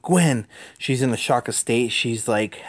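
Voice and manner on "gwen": a light retold call of her name; mock yell. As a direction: call out Gwen, only half-raised. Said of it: "yells out".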